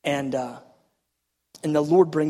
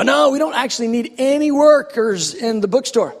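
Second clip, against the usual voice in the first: high, louder polite refusal; imitated recruiter; 6 semitones higher, 5 dB louder than usual. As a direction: let them down in a lifted voice. Acts out the recruiter's answer.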